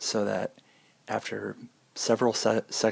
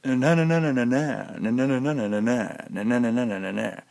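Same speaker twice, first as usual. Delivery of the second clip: YouTube patter; 3 semitones higher, 4 dB louder than usual. Shown as a demonstration. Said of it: "and they all".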